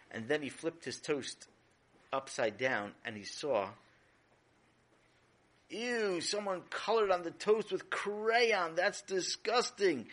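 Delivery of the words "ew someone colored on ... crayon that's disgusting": slow, grossed-out drawl; disgusted. Acted. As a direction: recoil in disgust. Brother finds crayon on toast.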